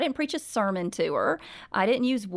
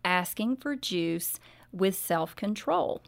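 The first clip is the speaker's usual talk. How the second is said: gentle mother. Retold or imitated. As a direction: coax the child gently, almost whispering. Mother gently corrects daughter.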